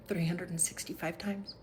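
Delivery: soft whisper; whispered reminder. Real, not acted. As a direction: whisper it like a secret. Whispered repeat of key fact.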